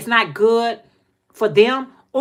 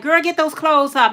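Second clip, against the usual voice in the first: mom ordering; 7 semitones higher than usual. Retold or imitated. Voicing mother's order.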